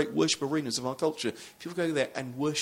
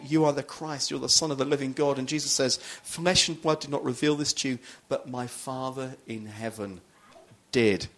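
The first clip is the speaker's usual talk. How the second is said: louder preacher's quote of scripture; preaching Jesus's words; 4 dB louder than usual. Acted. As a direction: proclaim the verse to the congregation.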